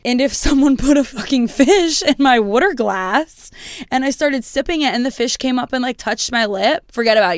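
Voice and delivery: a half-joking angry rant; heated outburst. Real, not acted. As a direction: get fired up about it. Heated rant about fish.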